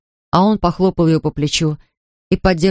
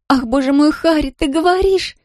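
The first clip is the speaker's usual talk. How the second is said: trembling amazement; 10 semitones higher than usual. A narrator's reading. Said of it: "Зоя тряслась всем телом".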